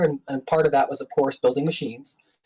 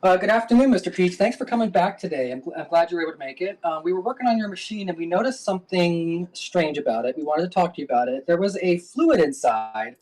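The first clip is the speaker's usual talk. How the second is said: lightly raised polite service voice; customer service voice; 2 semitones higher than usual. Pretend. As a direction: sound like a cheerful support rep. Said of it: "pretend that Peej is the customer and then berate him".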